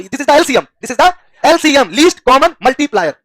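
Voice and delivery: slow, each letter spaced; dictating the term word by word; slow emphatic spelling out. Shown as a demonstration. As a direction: spell it out slowly for the class. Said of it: "spelling out LCM slowly".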